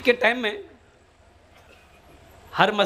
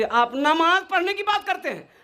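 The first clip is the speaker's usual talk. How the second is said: put-on higher, petulant kid brother voice; stubborn younger brother; 10 semitones higher than usual. Sulking younger brother refusing to pray with his brother, higher whiny voice. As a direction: whine it like a sulking younger sibling.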